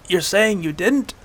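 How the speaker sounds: slow, choked-out question. Acted. Hunter after a punch to the gut, choking. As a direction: force it out as if winded. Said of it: "the hunter choked".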